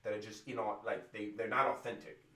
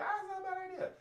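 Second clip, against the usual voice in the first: mocking a viewer; faster than usual. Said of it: "You're like".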